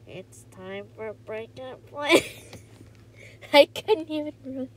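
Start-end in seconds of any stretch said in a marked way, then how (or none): 0.1-2.2 slow, poorly done character impression; bad Four impression. Shown as a demonstration. Trying an impression that fails, slow and clumsy. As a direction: attempt the character, slowly and badly. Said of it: "if I try to do a four impression".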